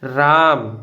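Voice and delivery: राम with the रा vowel drawn out; long aa. Shown as a demonstration. Teacher teaching the long aa mark, stretching the vowel. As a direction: hold the aa in राम a beat longer. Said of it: "रा को थोड़ा सा ज़्यादा time तक बोलना पड़ेगा".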